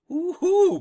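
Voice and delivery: high, loud gleeful whoop; mock trigger-happy glee. Trigger-happy cop polishing bullets, mock-gleeful. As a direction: whoop like an eager maniac, hammed up. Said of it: "crazy maniacs shooting".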